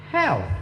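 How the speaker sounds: "Health" with a clear th at the end; "Health" ending in a soft th; th sound. Shown as a demonstration. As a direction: show the th in "Health". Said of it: "adakah huruf tha".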